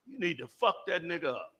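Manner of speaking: low, hushed demon voice; demon's whisper. Acted. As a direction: murmur it low like a tempting demon. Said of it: "a demon comes and whispers to me".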